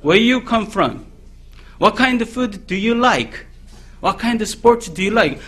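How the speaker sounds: slow, careful learner's English questions; slow memorized English. Retold or imitated. Preacher recalls reciting memorized questions to foreigners, slow and careful. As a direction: spell each question out like a nervous beginner. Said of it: "영어 뭐 외웠냐면".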